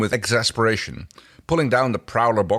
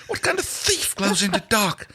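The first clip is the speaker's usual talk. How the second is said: much higher voiced, outraged character; indignant thief. Thief protesting that her figure glows, high and indignant. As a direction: squeal it in disbelief, higher.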